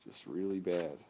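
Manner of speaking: nose whistling while speaking. Real, not acted. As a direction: let the nose whistle on the breath. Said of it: "Oh, my nose is whistling".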